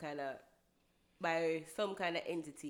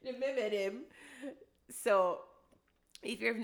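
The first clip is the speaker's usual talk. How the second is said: Vegas impression; 5 semitones higher, 6 dB louder, slower than usual. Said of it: "as when Vegas would have said".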